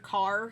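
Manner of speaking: "car" with a clearly pronounced R; enunciated R. Shown as a demonstration. Streamer showing how partner says car on request, enunciated R. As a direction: say "car" carefully, sounding the final R. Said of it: "enunciated R at the end".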